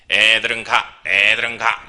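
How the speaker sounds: loud drawn-out hawker's call; market medicine peddler. Retold or imitated. Medicine peddler clearing children from the marketplace crowd, loud chanting call. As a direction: shoo kids off like a street peddler. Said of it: "보통 시장 가면 약장수들이 그러시잖아요".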